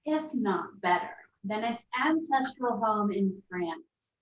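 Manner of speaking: label read. Acted. Reading the wine label aloud.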